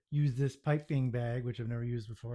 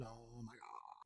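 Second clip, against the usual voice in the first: defeated; 3 semitones lower, 21 dB quieter, much slower than usual. Real, not acted. Despair over the cake.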